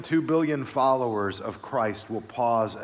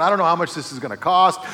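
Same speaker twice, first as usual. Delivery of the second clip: retold anxious thought; 3 semitones higher, 5 dB louder, faster than usual. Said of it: "and I'm thinking".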